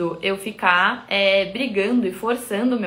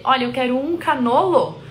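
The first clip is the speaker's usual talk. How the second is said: lightly acted customer, higher and louder; customer ordering; 4 semitones higher, 5 dB louder than usual. Customer ordering the Italian way, lightly acted customer voice. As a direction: play a customer placing an order. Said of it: "Se o cliente fala pra você".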